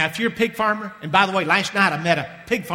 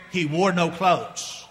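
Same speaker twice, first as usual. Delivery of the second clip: slow dramatic reveal; much slower than usual. Acted.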